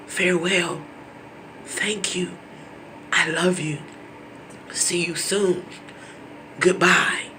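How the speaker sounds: hushed, tender goodbye; gentle whispered farewell to a dying parent; soft farewell. Retold or imitated. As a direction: whisper it like last words. Last words to dying parent.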